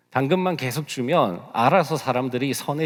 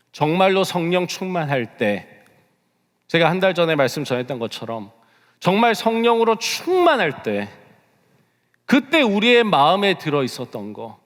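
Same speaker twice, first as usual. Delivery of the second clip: high, loud, pressing sermon delivery; forceful preaching; 5 semitones higher, 5 dB louder than usual. Real, not acted. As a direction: preach it with raised, urgent force. (힘주어 외치는 설교)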